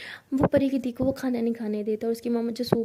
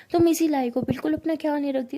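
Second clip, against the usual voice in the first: mother scolding; 3 semitones higher, 4 dB louder than usual. Retold or imitated. Mother scolding Pari for her carelessness, sharp and louder. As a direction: scold your daughter, she deserves it. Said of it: "परी की मम्मा भी डांटना start कर देती है".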